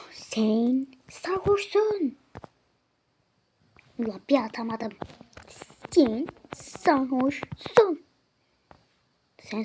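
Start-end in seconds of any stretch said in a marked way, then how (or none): 0.1-2.2 slow, drawn-out verdict; slow accusation. Acted. Telling the customer he is drunk, slow and pointed. 5.9-8.1 drawn-out, louder verdict; loud slow accusation. Acted. Bouncer telling the customer he is drunk, loud and slow.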